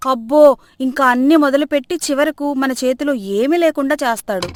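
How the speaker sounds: lightly voiced grumbling mother-in-law; mother-in-law complaining. Mother-in-law grumbles to daughter-in-law, lightly voiced complaining. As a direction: grumble about the son's budget.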